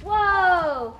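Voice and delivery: loud, long amazed whoa. Acted. Whale reaching the seafloor, loud amazed whoa. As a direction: gasp out a big whoa.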